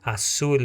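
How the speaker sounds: "Azul" ending in an L with the tongue on the palate, not a U; clear final L. Shown as a demonstration. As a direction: end "Azul" on a true L. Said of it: "ele fica a língua no palato". ("Azul" com L no palato)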